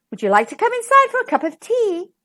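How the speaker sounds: high-voiced kindly Missus Duck; inviting duck. A narrator's reading. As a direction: offer it as a friendly invitation.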